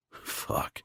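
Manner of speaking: breathless whispered swear; whispered curse. A narrator's reading. Aroused narrator, unvoiced.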